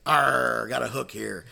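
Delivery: lightly voiced pirate with a punched "Arr"; a hint of hammed-up pirate growl. Joke teller answers as a pirate at a table, lightly voiced pirate. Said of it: "there was a real life pirate".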